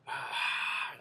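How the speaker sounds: breathy crowd roar without voice; imitated crowd cheering. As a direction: mimic a distant crowd's "ahh". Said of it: "like, cheering".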